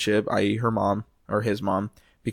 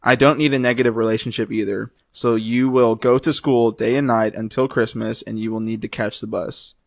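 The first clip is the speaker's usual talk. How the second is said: Southern twang. Acted. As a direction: read the mom's text in a drawling Southern accent. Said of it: "that was the mom".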